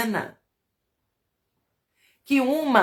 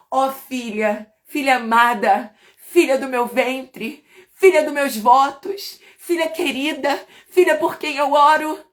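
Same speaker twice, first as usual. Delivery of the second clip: rising, loving litany to a daughter; tender mother's blessing; 4 semitones higher, 4 dB louder than usual. Pretend. Mother of Lemuel blessing her daughter, tender and rising. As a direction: bless her word by word, building up. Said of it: "repetir as palavras da mãe de Lemuel".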